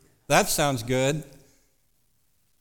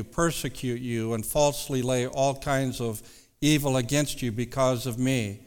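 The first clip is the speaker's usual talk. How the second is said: scripture reading; 2 semitones lower than usual. Acted. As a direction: read the verses with reverence. Reads scripture aloud.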